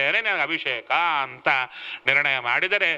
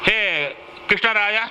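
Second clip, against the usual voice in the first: mild acted summons, slightly raised; calling out; 4 semitones higher than usual. Minister summoning Krishnaraya aside, lightly acted call. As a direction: call him over in a higher voice, without shouting. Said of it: "ಅಂತ ಕರೀತಾನೆ ತಿಮ್ಮರುಸು".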